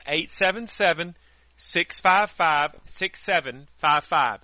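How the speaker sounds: number said again slowly and clearly; slow, deliberate phone number read. Shown as a demonstration. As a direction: spell out six five five, six seven five five with care. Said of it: "That number again".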